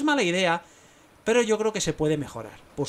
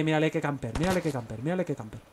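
ordinary delivery

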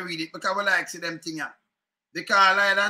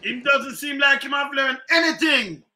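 mocking echo; 4 semitones higher than usual. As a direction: throw the line back with a jeer. Mocking the clip just played.

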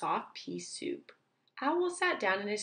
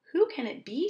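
puzzled question; 7 semitones higher, faster than usual. Acted. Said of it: "said Owl".

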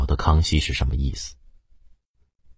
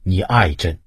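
much higher and louder, slow, despairing wails; anguished cries to heaven; 9 semitones higher, 5 dB louder, slower than usual. A narrator's reading. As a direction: howl your grief up at the sky. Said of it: "仰天连叫".

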